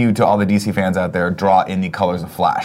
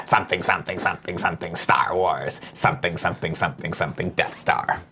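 softer and lower, fading to a whisper; trailing mumble; 5 semitones lower, 9 dB quieter than usual. Acted. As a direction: mumble it off as if half-forgotten. Mumbling a half-remembered catchphrase.

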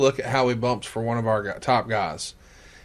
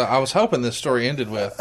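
ordinary delivery

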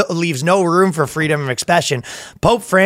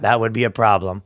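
mock translator shout; 5 semitones lower, 3 dB quieter than usual. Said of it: "Translates that".

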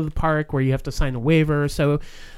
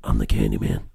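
Tony Todd voice. Retold or imitated. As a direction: drop the voice deep and drag it out. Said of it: "Why am I talking like this?".

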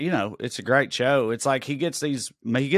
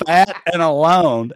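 repeating through laughter; 4 semitones higher, 9 dB louder, slower than usual. Real, not acted.

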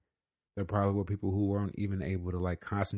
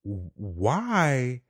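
frustrated quote; 3 semitones higher than usual. Retold or imitated. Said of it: "getting frustrated".

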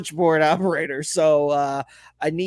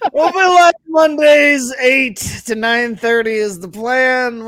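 excited; 8 semitones higher, 8 dB louder, slower than usual. Real, not acted. Hyped announcement of show time.

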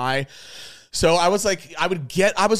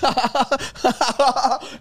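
high, loud forced cackle; imitated nervous laughter; 11 semitones higher, 4 dB louder than usual. Stoned man laughing awkwardly beside his girlfriend, imitated nervous laughter. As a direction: mimic uncontrollable stoned laughter. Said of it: "kept walking while laughing".

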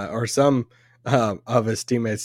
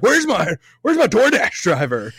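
higher, plaintive asking; flustered Roddy B quote; 8 semitones higher than usual. Retold or imitated. Roddy B searching the street for his DoorDash driver, lightly imitated, higher. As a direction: lightly mimic a lost star looking for his delivery. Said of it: "he's saying his French accent".

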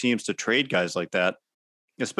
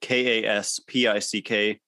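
letter by letter, each letter clear; spelling it out. Real, not acted. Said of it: "Last name is spelled".

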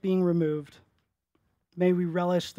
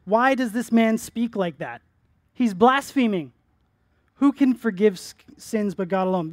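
louder, accusing scribes' question; voiced aloud accusation; 3 semitones higher, 6 dB louder than usual. Pastor voicing the scribes' objection, loud and accusing. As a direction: call it out like an outraged scribe. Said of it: "sorry, they were thinking this".

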